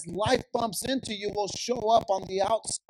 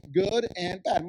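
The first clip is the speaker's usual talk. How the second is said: voice cracking; slower than usual. Real, not acted. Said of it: "My voice cracked".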